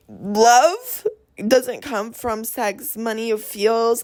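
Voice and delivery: slow, emotional, close to crying; slowed and tearful. Real, not acted. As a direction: let the words catch as the tears come. Emotional speech about love.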